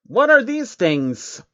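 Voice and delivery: high, slow, wide-eyed little creature; timid high changeling asking slowly. Acted. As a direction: ask it like a nervous small changeling. Changeling character voice.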